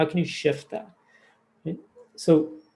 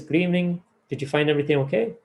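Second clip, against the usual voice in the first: flat rote cashier; faster than usual. Retold or imitated. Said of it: "That's their script".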